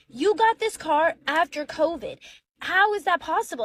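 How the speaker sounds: acted-out indignant wife; incredulous challenge. Wife acted challenging his excuse.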